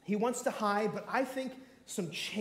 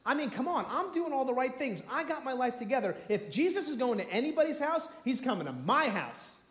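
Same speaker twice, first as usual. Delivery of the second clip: jealous elder brother; 3 semitones higher than usual. Acted. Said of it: "Like the elder brother in the prodigal son".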